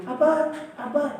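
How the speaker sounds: high straining "Apa?"; shouting over music. Retold or imitated. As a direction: act it out like you can't hear over the music. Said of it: "saya ngobrol".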